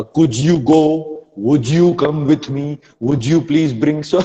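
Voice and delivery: "Could you", "Would you" laboured with an overdone j link; slow, stilted beginner overdoing "Would you"; mock a first-time learner, dragging "Could you"; clumsy learner's attempt. Shown as a demonstration. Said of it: "saying something like this".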